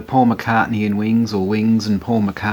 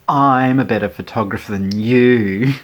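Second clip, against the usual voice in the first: put-on a botched American accent, barely there; half-hearted American accent; failed American accent; 4 dB louder than usual. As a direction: attempt an American accent and miss. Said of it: "I can't do the American accent".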